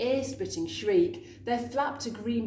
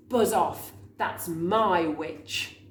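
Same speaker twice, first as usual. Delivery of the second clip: beast growl; 4 dB louder, slower than usual. Acted. Horrible beast warns dragon.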